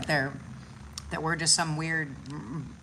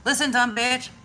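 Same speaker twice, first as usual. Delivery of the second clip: higher, louder sassy scold; sassy cat voice; 6 semitones higher, 4 dB louder than usual. Retold or imitated. The cat scolds her owner, sassy mock voice. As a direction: give the cat attitude. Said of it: "she's like".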